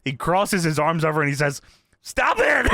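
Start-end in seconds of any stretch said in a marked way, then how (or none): 2.0-2.7 mock exasperated yelp, high pitched; retold high-pitched outburst; pissed-off wrestler. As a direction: snap it like a fed-up wrestler, playing it up. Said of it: "Kurt is getting pissed".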